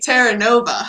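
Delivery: TERRANOVA with English r, "terra-NO-va". Shown as a demonstration. Trying the colleague's surname before she says it, English pronunciation. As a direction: say TERRANOVA as an English speaker would. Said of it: "that's the English way of saying it".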